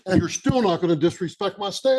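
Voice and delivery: loud, firm rebuke; angry. Real, not acted. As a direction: scold her sharply and loudly. Mayor rebukes commissioner.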